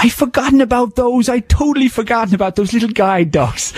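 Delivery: high, laughing Irish sprite voice; lilting high leprechaun impression. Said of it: "You made him sound like a leprechaun".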